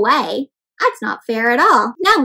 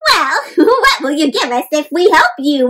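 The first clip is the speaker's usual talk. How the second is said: cheeky chatter; 3 semitones higher, 5 dB louder than usual. Acted. Monkey to Mela, laughing cheeky bargain. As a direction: tease her with a cackle. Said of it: "one chattered".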